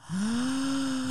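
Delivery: sharp intake of breath; shocked gasp. Real, not acted. Listener hears the family is home, shocked gasp. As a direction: gasp at the reveal.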